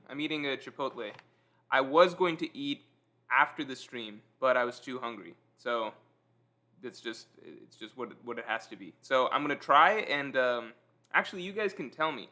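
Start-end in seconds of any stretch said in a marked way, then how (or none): 0.1-8.9 talking while chewing; mouth full. Real, not acted. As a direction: speak through a mouthful of food. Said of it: "Tell me if you hear me chewing".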